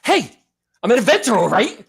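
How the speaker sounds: a touch of brash, eager movie-star bravado; Mark Wahlberg impression. To his co-host, doing Mark Wahlberg as the cocky inventor. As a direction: play a cocky leading man bragging. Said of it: "just somebody who looks like Mark Wahlberg".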